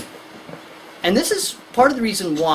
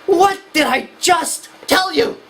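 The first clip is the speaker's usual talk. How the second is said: higher, slow and louder scolding; scolding parent; 11 semitones higher, 4 dB louder, slower than usual. Retold or imitated. Lecturer playing a parent scolding a kid, slow and higher. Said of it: "every parent says".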